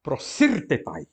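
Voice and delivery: "prosirtetai" read slowly as pro-sir-te-TAI; Greek word modelled. Shown as a demonstration. Teacher reads a long Greek word to the class, slow. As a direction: sound out "prosirtetai" slowly, each syllable clear. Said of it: "por exemplo".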